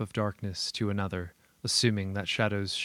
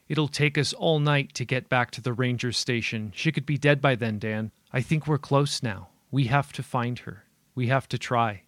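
snapping; 3 semitones higher, 3 dB louder than usual. Acted.

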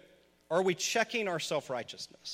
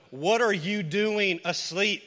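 ship captain's plea; 2 semitones higher, 5 dB louder, slower than usual. Acted. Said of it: "he says to Jonah".

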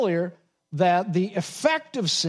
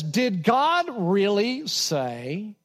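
slow, drawn-out doubting question; mock incredulity; incredulous; much slower than usual. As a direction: sound like you can't believe it. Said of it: "you can hear the incredulity in his voice".

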